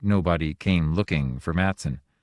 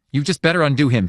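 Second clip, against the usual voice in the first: high, louder furious shriek; 7 semitones higher, 6 dB louder, faster than usual. A narrator's reading. Wife shrieking at the god to undo him, furious. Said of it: "Pat shrieked".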